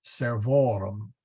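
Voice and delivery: "servorum" with the stress moved to VO; a clear demo of "servorum", second syllable stressed; stress on second-to-last syllable. Shown as a demonstration. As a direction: lean on the middle of "servorum". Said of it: "still in the second syllable".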